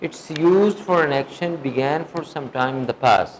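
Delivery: words said very slowly and evenly for note-taking; slow dictation. Shown as a demonstration. Teacher dictates a definition to students, very slowly. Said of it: "وہ لکھ لیں آپ".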